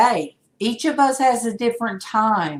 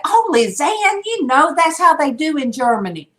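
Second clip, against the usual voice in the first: retold own reply; 7 semitones higher than usual. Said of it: "And I was telling Lizanne".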